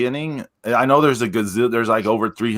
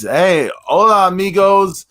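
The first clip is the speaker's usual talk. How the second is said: high hype host with stuttered echo; announcer intro; 12 semitones higher, 3 dB louder than usual. Acted. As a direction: open the show like a wrestling announcer. Hyped show opening.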